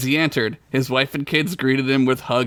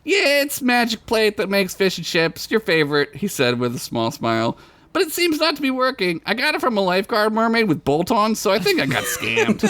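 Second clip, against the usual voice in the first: higher character voice; 7 semitones higher than usual. Acted. Bilbert talks to wife.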